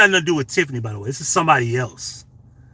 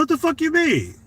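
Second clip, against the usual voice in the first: retold outrage. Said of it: "I said".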